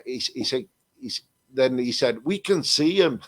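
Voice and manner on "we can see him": higher-pitched mock Scottish voice; imitated Scottish voice. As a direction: put on a light Scottish accent, pitched up. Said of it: "in this other Scottish voice".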